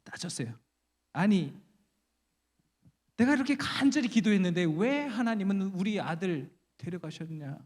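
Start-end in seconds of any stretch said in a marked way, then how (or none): 1.1-7.6 mildly acted challenge to an angel; indignant protest. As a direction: argue it like a wronged mother. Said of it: "막 따졌어요". (살짝 따지는 말투)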